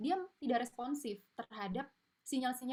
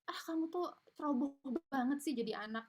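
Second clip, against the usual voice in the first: labeling parent; 5 semitones higher than usual. Retold or imitated. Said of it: "kita belum-belum udah ngecap".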